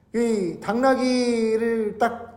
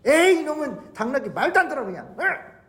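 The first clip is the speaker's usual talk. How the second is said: higher, hurried mock scolding; acted exasperation; 4 semitones higher, much faster than usual. Balaam beating his donkey a third time, exasperated. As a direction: scold crossly, ending in a high yell. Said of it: "세 번째 당나귀를 때리기 시작합니다".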